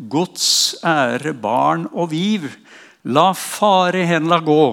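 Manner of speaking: slow, weighty verse recital; solemn hymn recitation. Acted. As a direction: declaim each word of the verse.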